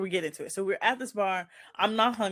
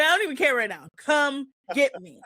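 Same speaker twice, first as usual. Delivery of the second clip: begging with nothing left to lose; desperate plea; 6 semitones higher than usual. Retold or imitated. Begging friend to pick her up.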